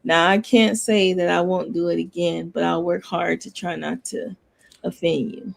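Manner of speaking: low, monotone apology that sounds insincere; almost sarcastically even-toned sorry; one-tone apology. Shown as a demonstration. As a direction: apologize on one note, with halting ums. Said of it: "sounds insincere because you're one tone".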